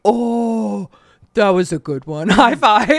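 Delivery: laughing through a retold compliment; chuckling, giving props for a burn; laughing praise. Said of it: "I'm like".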